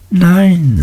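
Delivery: domineering schoolmaster's exclamation; emphatic repeat. A narrator's reading. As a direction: pounce triumphantly on the answer. Creakle seizes on the answer.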